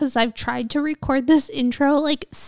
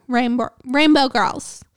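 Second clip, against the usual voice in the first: tongue-tied stumble. Real, not acted. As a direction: stumble and restart on "Rainbow". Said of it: "I, like, can't talk".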